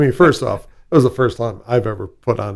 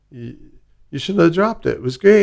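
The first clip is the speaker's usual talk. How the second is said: Scottish guy; 6 semitones higher than usual. Retold or imitated. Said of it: "a guy from Scotland once tell me".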